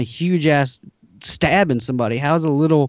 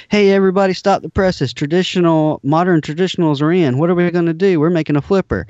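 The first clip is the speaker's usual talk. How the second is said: put-on Italian accent; 5 semitones higher than usual. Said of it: "That's his accent".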